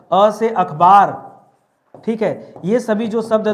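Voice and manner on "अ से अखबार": each word drawn out very slowly for the class to memorise; slow rote drill. Shown as a demonstration. Teacher drilling students to memorise words, slow and deliberate. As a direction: chant it slowly so they can learn it by heart. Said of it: "कुछ चीजें मैं आपको रटा दे रहा हूँ".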